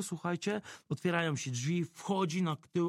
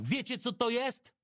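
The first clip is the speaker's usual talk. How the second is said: firm challenge; 9 semitones higher than usual. Retold or imitated. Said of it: "i mówię do nich tak".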